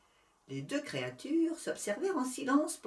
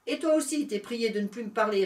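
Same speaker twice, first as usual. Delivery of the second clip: retort; 3 semitones higher, 4 dB louder than usual. Acted. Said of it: "répliqua l'éléphant".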